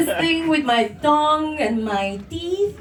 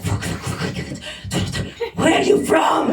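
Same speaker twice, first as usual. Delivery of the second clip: muttered curses then a blurted question; mock annoyed locals; 4 semitones higher than usual. Comic mimic of rude people asking where she's from. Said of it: "They ask me like this".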